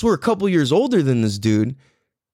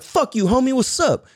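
higher-pitched mock defiance; cocky comeback; 9 semitones higher than usual. Fourth grader answering a sixth grader, cocky defiance. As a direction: fire back a challenge, pitched up. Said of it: "I'll be like".

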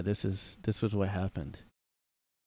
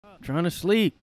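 mock sleepy Biden; 7 semitones higher, 4 dB louder than usual.

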